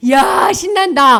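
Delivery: loud, high, drawn-out cheer; acted glee. Receiver cheers at the gift God gave, hammed-up glee. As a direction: whoop it out slowly, hammed-up. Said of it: "하고 받은 것만 보고".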